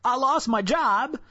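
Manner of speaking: comically exaggerated bawling; mock boo-hoo wail. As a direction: wail it as a hammed-up sob. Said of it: "And then there's the boo-hoo".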